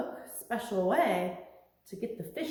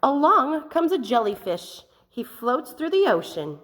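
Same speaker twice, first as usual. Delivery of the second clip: lightly voiced, floating, gentle jellyfish; a touch of a dreamy jellyfish; 2 semitones higher, 9 dB louder than usual.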